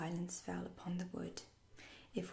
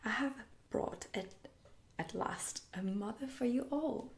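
higher, excited announcement; proud cry; 4 semitones higher than usual. A narrator's reading. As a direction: proclaim glad news to the boys. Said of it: "he cried".

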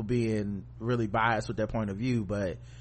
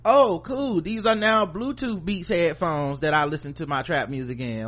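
mock bougie voice; 4 semitones higher than usual. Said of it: "pretend I like this shit".

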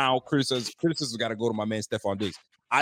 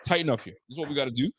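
coach pep talk; 3 semitones higher, faster than usual. Retold or imitated. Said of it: "a coach that brings you in and says".

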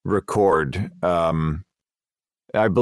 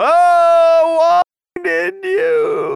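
mock dramatic shout; 5 dB louder, much slower than usual. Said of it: "you didn't go".

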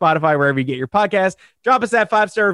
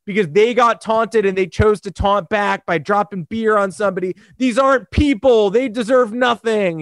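higher, overwrought pundit whine; mock outrage; 4 semitones higher than usual. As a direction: ham up a smug hot take. Parodying media hot takes.

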